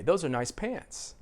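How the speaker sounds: "nice" lighter, "pants" stronger; stress on PANTS. Shown as a demonstration. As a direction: stretch pants as the stressed noun. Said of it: "Which one is the set phrase?".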